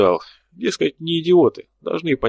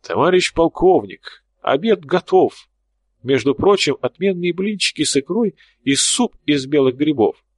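amateur actor voice; 3 semitones higher than usual. Acted. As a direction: declaim like a bad amateur actor. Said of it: "тонным голосом актёра-любителя произнёс".

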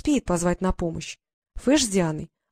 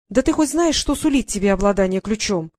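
exasperated; 5 dB louder than usual. Acted. Fairy exasperated at ignorant girl.

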